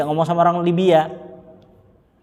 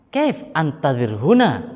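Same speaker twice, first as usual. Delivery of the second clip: confused Yemeni; slower than usual. Retold or imitated. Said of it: "Orang Yaman ini bingung".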